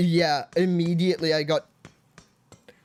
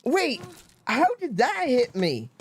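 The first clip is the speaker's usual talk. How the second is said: raging gamer; 7 semitones higher, 3 dB quieter than usual. Real, not acted. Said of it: "I'm stressing out".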